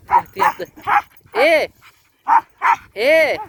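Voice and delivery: high, loud gleeful cries; excited shout. Real, not acted. Owner cheering as the dog knocks a man down, high gleeful. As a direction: cheer as the dog tackles him.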